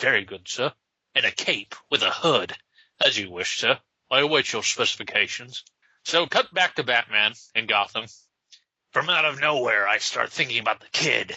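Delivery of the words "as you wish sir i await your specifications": put-on upper-class British accent. Answering Batman's requests for a costume, in an upper-class British accent. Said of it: "British accent, upper class".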